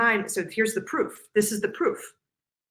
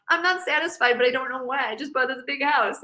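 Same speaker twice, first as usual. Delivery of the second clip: higher, whiny silly complaint; mock complainer in a silly high voice; complaining voice; 5 semitones higher than usual. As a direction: whine like a spoiled homeowner. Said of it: "the complaining voice".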